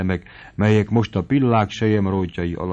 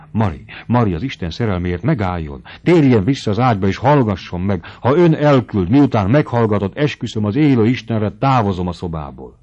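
frantic pleading; 2 semitones higher, 6 dB louder than usual. Acted. Noszti frantically begs Mari to come back, loud and urgent.

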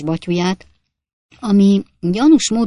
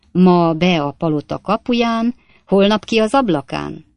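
brisk, choppy braggart voice, louder; boastful Jingle; 4 dB louder than usual. Acted. Stranger brushing off the coachman fight, boastful rattle. Jingle quips about Whitehall.

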